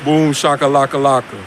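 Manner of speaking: talking round a lit cigarette; cigarette in mouth. Real, not acted. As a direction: say it with a cigarette between lips. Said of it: "let me light this cigarette up".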